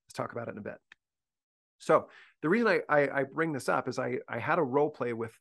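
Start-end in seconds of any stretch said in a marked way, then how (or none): 0.1-0.8 soft, even and unhurried; calm teacher. Retold or imitated. Teacher calmly addressing a misbehaving student, softer. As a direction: settle the student down quietly. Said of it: "better to stay calm and to look at the student".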